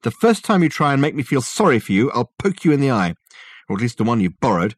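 loud, high, irritated orders; snapped. A narrator's reading. Dirk warning the ghost off self-pity, snapping. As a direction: snap out threats and demands. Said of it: "snapped Dirk".

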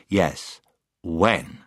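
quietly doubt the word "when"; very dryly. Acted. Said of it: "said Puddleglum very dryly".

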